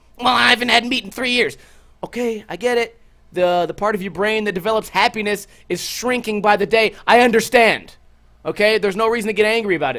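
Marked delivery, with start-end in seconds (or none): 0.3-1.6 mock yelling. Speaker retelling a vegan who kept asking for vegan places: imitating a vegan yelling. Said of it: "You don't have to yell about it".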